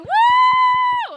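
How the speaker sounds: very high loud whoop; mock audience woo. Imitating an excited audience member, high loud whoop. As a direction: whoop like an overexcited fan. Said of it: "You was like".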